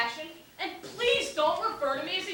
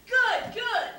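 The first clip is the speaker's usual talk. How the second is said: excited relief; 7 semitones higher, 5 dB louder than usual. Acted. Traveler has found his crew.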